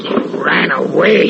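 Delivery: breathless, near-whispered; stunned breathy gasp. Acted. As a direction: gasp it out in disbelief. Stunned after the thing escapes.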